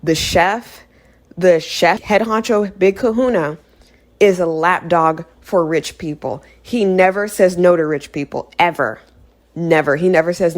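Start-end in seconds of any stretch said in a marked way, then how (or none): 0.0-6.4 slow and deliberate, pausing between phrases; said really slowly. Shown as a demonstration. Retelling a movie to viewers, slow and emphatic. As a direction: spell it out slowly with pauses, one phrase at a time. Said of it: "Let me say this one more time really slowly".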